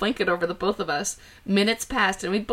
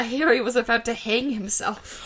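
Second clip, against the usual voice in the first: laughing. Real, not acted. Laughing through dramatic line.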